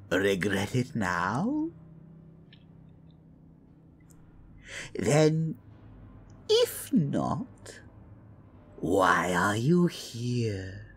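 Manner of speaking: a hint of a purring, teasing witch; sly old witch. Witch Adelaide welcoming the heir, silky and sly. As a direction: coax the guest with sweet menace.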